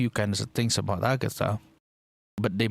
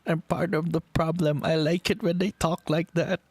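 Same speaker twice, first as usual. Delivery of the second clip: higher, guilty admission with a grin; higher playful self-mockery; sheepish confession; 8 semitones higher than usual. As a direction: own up to being part of the problem. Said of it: "and I'm like".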